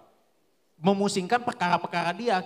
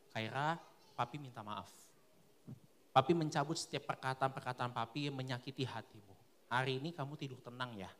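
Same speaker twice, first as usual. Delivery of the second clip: tender apology; 8 semitones lower, 11 dB quieter than usual. Retold or imitated. Father apologising to his baby daughter, hushed and tender. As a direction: apologise softly to a baby in your arms. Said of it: "aku bilang".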